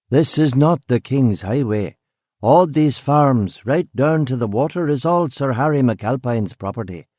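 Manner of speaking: lilting country accent, lightly put on; insistent country accent. Gamekeeper insisting on property to policeman, country accent. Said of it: "the man insisted".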